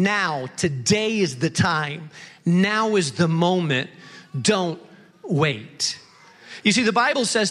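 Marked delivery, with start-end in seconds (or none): 0.0-6.0 slow, low, earnest urging of Jesus; lightly voiced Jesus, no waiting; Jesus urging now. Preacher voicing Jesus at the well, slow earnest plea.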